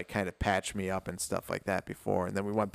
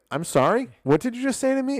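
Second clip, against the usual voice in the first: mock disbelief; 13 semitones higher, 5 dB louder than usual. His retorted disbelief, retold.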